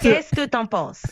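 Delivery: light Quebec accent; slight Québécois lilt. Real, not acted. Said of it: "je vais essayer d'avoir un petit accent québécois".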